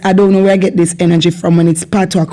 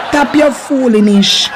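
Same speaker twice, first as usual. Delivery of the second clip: Jamaican Patois; 3 semitones higher than usual. Shown as a demonstration. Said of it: "a lot of Jamaicans will say".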